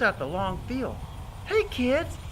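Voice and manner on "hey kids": put-on high, coaxing aside to kids; pitched-up storytime prompt; inviting children's host. Shown as a demonstration. Narrator turns to child listeners.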